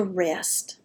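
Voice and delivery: a soft whisper on rest; whispered word. Real, not acted. Softening the key word.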